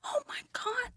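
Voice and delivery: hushed gossip whisper, soft and high; mock whisper. Mock whisper about Doug Ford's brother dying. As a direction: whisper the sad news with mock shock.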